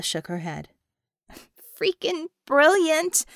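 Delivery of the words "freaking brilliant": higher, louder, slow delighted exclamation; thrilled. Acted. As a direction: savour every word of the idea. Bella thrilled by the lineup plan.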